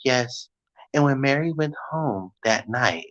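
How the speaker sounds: a hint of a low documentary narrator voice; lightly voiced true-crime narrator; softly imitating a crime-show voice-over; mock crime-show narrator. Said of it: "that man with that deep voice".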